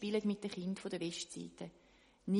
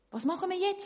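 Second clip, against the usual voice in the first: worried question; 10 semitones higher, faster than usual. Acted. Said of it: "fragen auch der Doktor".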